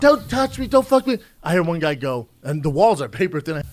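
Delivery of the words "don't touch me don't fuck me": loud, high mock yell through the wall; neighbor shouting. Comedian imitates a neighbor yelling through motel walls, loud mock yell. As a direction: belt it like a guy yelling next door. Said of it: "I wake up to next door shouting".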